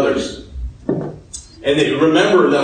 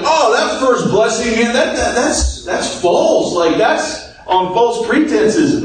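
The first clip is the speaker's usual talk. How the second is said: higher-pitched, mildly outraged objection; mock indignant protest; 7 semitones higher than usual. Cheated brother objecting to the stolen blessing, mock indignant. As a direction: protest it in a high, put-out voice.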